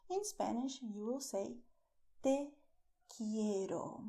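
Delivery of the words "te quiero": whispered romantic phrase. Shown as a demonstration.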